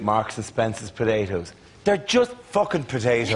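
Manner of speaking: lightly put-on food-advert voiceover, dropping low at first; a hint of a hammy commercial voiceover; mock advert voiceover. Comic imagining a supermarket advert in hard times, mock voiceover. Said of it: "why you didn't get that voiceover".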